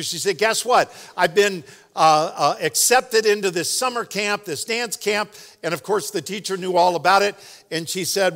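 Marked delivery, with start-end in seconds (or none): 0.4-5.3 higher-pitched, retold girlish excitement; excited girl. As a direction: imitate a girl bursting with good news. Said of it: "She was so excited".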